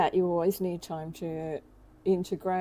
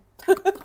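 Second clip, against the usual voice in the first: hiccup; 12 semitones higher, 10 dB louder than usual. Real, not acted. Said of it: "my hiccups".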